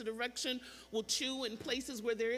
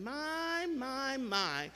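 wondering exclamation; much slower than usual. Retold or imitated. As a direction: imitate an elder marvelling, lost for words. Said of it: "heard that expression".

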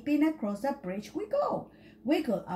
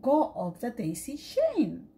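mild yell. Acted. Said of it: "yelled his sister".

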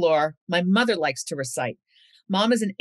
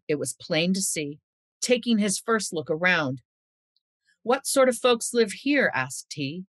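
folklore recitation. Acted. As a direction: savour each line like a fireside tale. Recites her mother's Yorkshire folklore poem.

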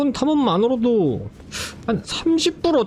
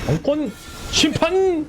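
battle cry; 8 semitones higher, slower than usual. Real, not acted. Shouting skill names in combat.

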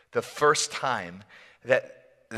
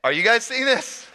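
higher, wide-eyed disbelief; hushed-up no more, incredulous rising question; astonished disciple; 9 semitones higher than usual. Acted. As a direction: check with the others in amazement. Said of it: "is like".

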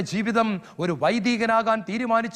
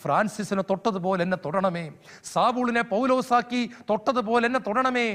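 prayer. Real, not acted. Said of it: "നമുക്കും പ്രാർത്ഥിക്കാം".

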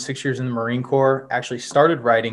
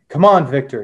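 raised voice, urging a friend on; calling out; 2 semitones higher, 5 dB louder than usual. Acted. Cutter calling back to Victor in the alley, urgent call. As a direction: call ahead to hurry him along. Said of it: "he called in French".

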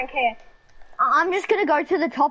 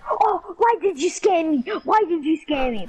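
mocking whiny voice; 5 semitones higher than usual. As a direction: drag it out like a whining kid. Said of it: "Bro, you're so obnoxious".

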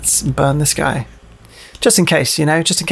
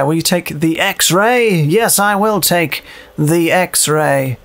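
slow, deliberate menu-voice question and answer; a hint of a stilted video game narrator; mock game prompt; much slower than usual. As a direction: drag it out like a clunky game dialogue box.

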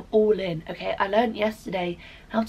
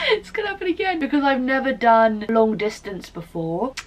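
louder, welling up as she explains; near tears; 3 semitones higher, 5 dB louder than usual. Real, not acted. Vlogger on boyfriend moving away, near tears. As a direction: push the words out as tears threaten.

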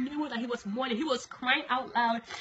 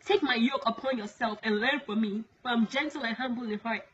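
solemn prophetic declamation; 4 dB louder than usual. Acted. Woman relaying God's warning to the world, solemn proclamation. Recites divine message in God's voice.

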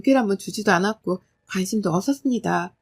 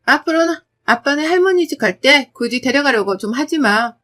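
louder, cutting comebacks; sassy retort; 4 dB louder than usual. Acted. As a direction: needle dad with cool logic. Daughter retorts.

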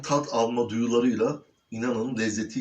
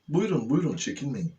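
inviting; 4 semitones higher than usual. Real, not acted. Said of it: "ikram edeyim sizlere".

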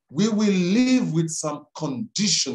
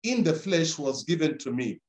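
scripture reading; 2 semitones lower than usual. Acted. Scripture reading over music.

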